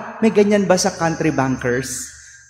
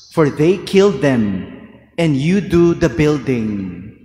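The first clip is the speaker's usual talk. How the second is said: Gospel reading; 2 semitones lower than usual. Acted. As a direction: read it like scripture at Mass.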